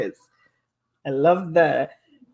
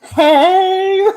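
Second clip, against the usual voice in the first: high, loud playful "Hey"; imitating Coco; 13 semitones higher, 9 dB louder than usual. Mimicking Coco's tongue-out greeting to the stream, high playful squeal. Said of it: "she sticks out her tongue and she's like".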